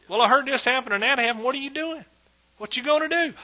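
high, loud anxious questioning; a fretful friend loudly quizzing the believer; worried friend. Acted.

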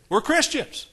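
rising preacher shout; preaching burst. Real, not acted. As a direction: lift it up to the congregation.

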